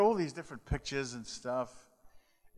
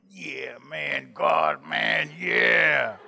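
louder, higher mock cheer of kids; boys cheering; 3 semitones higher, 8 dB louder, much slower than usual. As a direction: shout it like boys who just won. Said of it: "And they went".

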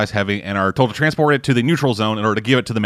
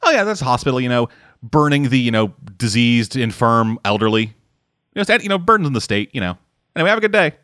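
same casual cop tone. Retold or imitated. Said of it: "in the same tone of voice".

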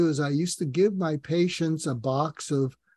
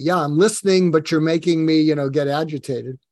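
louder, irritated pushback; role-played irritated listener, louder; mock agitated listener; 7 dB louder than usual. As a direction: voice an annoyed listener snapping back. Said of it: "you may be getting angry".

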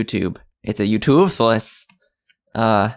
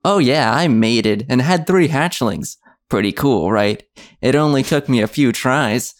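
YouTuber voice; 3 dB louder than usual. Acted. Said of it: "you sound like such a YouTuber".

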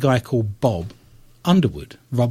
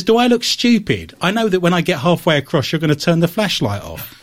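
indignant joke character; 6 semitones higher than usual. Acted. Chilean man's punchline in joke.

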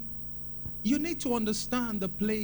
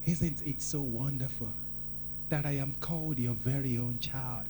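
put-on grateful child prayer; 4 semitones lower, 5 dB quieter than usual. Shown as a demonstration. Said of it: "like a New Testament worshiper".

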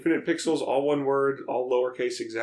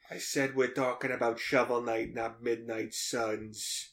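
lightly voiced mobster correcting someone; mock mobster. Playing Sopranos mobsters talking games.

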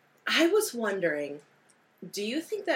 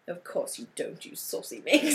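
whispered movie quote. Retold or imitated. Quoting a movie line.

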